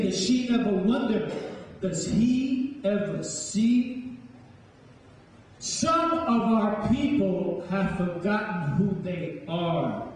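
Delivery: rhythmic spoken-word poem, rising and falling; poem recital. Acted. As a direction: declaim it like a performance poet. Recites his poem to audience.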